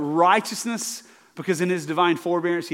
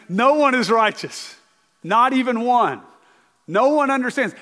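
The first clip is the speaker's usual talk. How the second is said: raised, emphatic scripture reading; preacher reading verses, raised and emphatic; 5 semitones higher than usual. Acted. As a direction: read each line out to the congregation. Reads scripture aloud.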